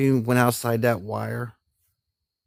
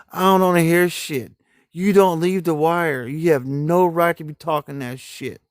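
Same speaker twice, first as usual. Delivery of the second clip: slightly raised, imitated dressing-down; mock tirade; 4 semitones higher than usual. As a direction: retell a sergeant going off on them. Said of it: "He was going off".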